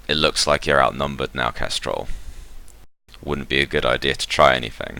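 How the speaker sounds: robotic, grinding voice, light touch; lightly voiced grating machine; grating mechanical voice. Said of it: "like, grating mechanical voice says".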